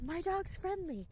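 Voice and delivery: mock the clueless owner, sing-song; lightly voiced clueless owner; dog owner. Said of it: "and they're like".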